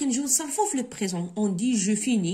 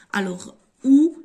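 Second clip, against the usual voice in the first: « où » rising, much louder and slow; où stressed; 4 semitones higher, 9 dB louder than usual. Shown as a demonstration. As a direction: lift and punch où. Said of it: "avec accent, il indique un lieu". (insiste fortement sur « où »)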